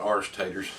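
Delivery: "Arsh taters", Irish squeezed into one syllable; slow, folksy "Arsh taters"; grandfather's country pronunciation. Retold or imitated. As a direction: drop the first syllable of potatoes to "taters". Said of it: "as my grandfather used to say".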